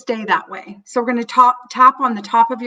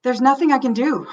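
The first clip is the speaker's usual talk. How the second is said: helpless, stronger; 3 semitones higher than usual. Acted. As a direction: repeat it harder, stress nothing. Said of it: "your own sense of panic".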